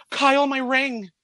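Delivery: mock-dramatic cry of dismay; retold distress. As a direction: imitate a sister's dramatic announcement. Retold sister's distressed announcement.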